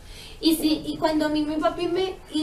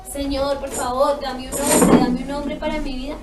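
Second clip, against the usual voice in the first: mock pleading prayer; 5 dB louder than usual. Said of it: "que yo me hubiese arrodillado".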